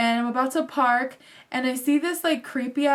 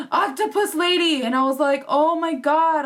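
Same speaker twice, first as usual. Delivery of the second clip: shocked realisation; 4 semitones higher, 4 dB louder than usual. Retold or imitated. Realises who took the bags.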